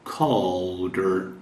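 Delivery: "Calder" sounding like "Colder". Shown as a demonstration. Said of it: "A letra A geralmente tem o som de O".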